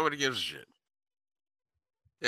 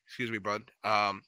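much softer, trailing into a whisper; calm quiet warning; 2 semitones lower, 5 dB quieter than usual. Retold or imitated. Warning the guy at the punching machine, calm and quiet. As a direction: ease the warning out gently. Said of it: "I just calmly say".

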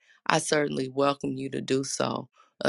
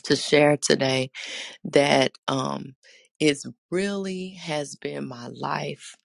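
hoarse, scratchy throat; raspy voice. Real, not acted. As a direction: speak through a rough voice. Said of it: "voice being a little raspy".

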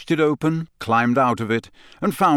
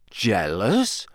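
rising disbelieving question; can't believe what he hears; incredulous. Acted. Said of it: "Harry said incredulously".

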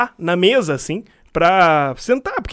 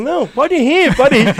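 teacher giving permission; 7 semitones higher, 3 dB louder, slower than usual. Retold or imitated. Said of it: "Aí o professor falou".

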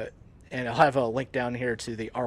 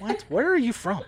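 Southern local asking; 9 semitones higher than usual. Retold or imitated. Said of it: "I was like".

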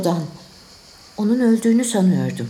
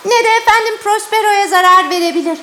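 high, loud otherworldly judgment; avenging spirit voice; 10 semitones higher, 5 dB louder than usual. Acted. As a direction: pronounce doom like an angry spirit. Ariel pronounces judgment.

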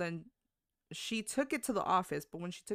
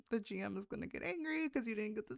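half-laughing, higher and a bit brighter; laughing while quoting; 7 semitones higher, 3 dB louder than usual. Retold or imitated. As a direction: giggle through the teasing warning. Teasing quote, laughing around it.

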